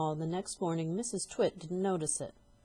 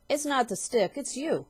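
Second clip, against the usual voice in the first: higher, louder, nasty gloat; gloating husband; 7 semitones higher, 6 dB louder than usual. Acted. Husband tricking his wife, gloating with a grin. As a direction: grin through every word. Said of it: "grinning horribly".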